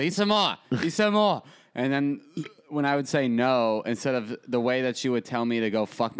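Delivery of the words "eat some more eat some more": 손주에게 더 먹으라고 재촉하는 할머니, 높고 큰 목소리; pushy grandma. Retold or imitated. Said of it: "she keeps shoving food".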